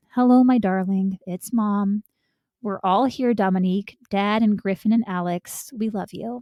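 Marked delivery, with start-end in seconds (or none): none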